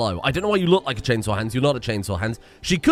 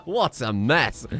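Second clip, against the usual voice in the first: slow words through laughter; laughing; 7 semitones higher, 4 dB quieter, much slower than usual. Real, not acted. Laughing at the chaos.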